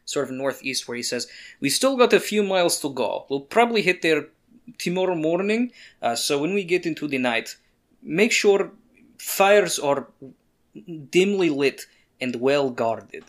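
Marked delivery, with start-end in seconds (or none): 1.6-13.2 measured, deliberate instructions with pauses; a hint of a seasoned guide laying out the plan; lightly voiced steady guide. Gilderoy tells travellers how to camp tonight, steady guide.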